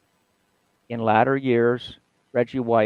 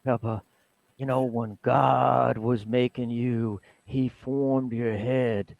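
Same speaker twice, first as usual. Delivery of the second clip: Reggie White impression; slower than usual. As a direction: ease into Reggie's slow storytelling voice. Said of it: "I can't really mimic Reggie's".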